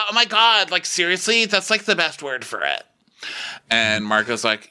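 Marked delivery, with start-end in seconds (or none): 0.1-2.8 high gush easing down; imitating giddy agreement; mock excited. Imitating Emily gushing to a friend, high mock excitement. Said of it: "Um, excited?".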